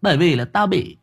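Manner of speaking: high-pitched, aggrieved pleading in a mock-wronged voice; hammed-up lament. Host pleading with absent friend for pity, hammed-up lament. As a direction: wail out your grievance in a high, theatrical plaint.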